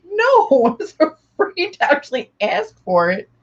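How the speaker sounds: high-pitched imitation of a friend; mock timid protest. Friend imitates the other refusing, high mock protest. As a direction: raise the voice into a play-acted protest. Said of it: "And you were like".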